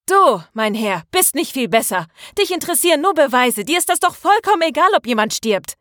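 high, rapid, indignant rebuke; furious accusation. A narrator's reading. Maria turns on René for caring only about proof, furious. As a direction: round on him, pitch climbing fast. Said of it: "Marias wütender Blick".

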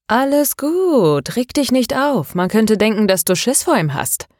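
lightly mocking small man, calming then jabbing; teasing Kovac. Kovac taunts the nervous boxer.

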